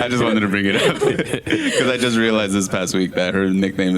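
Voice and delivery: giggling through the words; laughing. Real, not acted. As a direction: talk while laughing. Laughing through her story.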